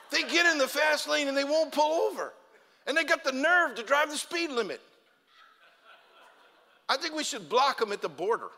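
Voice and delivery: high, loud exasperated rant; comic rant. Real, not acted. Ranting about slow drivers.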